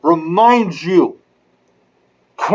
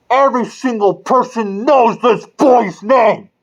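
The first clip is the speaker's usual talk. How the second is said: angry shout. Real, not acted. Angry rant at news media.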